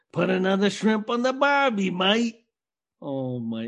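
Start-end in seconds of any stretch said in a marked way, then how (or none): 0.1-2.4 lightly mimicked Australian accent; stereotype Aussie accent. Co-host asking about a cliché, light mock Aussie accent. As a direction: quote the tourist-ad Aussie catchphrase. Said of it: "the dudes that always say".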